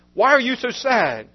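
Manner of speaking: a bright, cheerful scolding; joyful rebuke. Acted. Edith teases her doctor for being sad, joyful rebuke.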